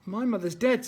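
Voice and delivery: a touch of sudden heat; surprising heat. Acted. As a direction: snap it back, mildly hot. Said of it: "with surprising heat".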